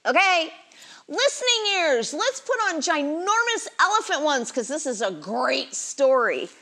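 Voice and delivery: sweet patient sunday school teacher. Acted. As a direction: gently coax little children to settle. Leads kids before Bible story.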